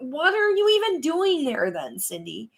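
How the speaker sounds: high, slow incredulous question; exasperated scolding. Acted. Viewer asking Cindy why she went there, exasperated. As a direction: stretch it out, baffled and reproachful.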